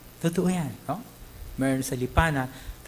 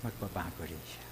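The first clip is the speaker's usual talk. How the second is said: much softer, lower, hushed promise; soft conclusion; 9 semitones lower, 13 dB quieter than usual. Acted. Preacher softly assuring the congregation, much quieter. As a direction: let it drop to a hush.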